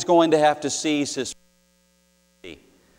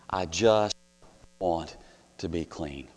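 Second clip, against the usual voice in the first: a plea that fades to almost nothing; fading whisper; 8 semitones lower, 8 dB quieter than usual. Retold or imitated. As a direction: let the voice die away on each word. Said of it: "Or with my teenage friend".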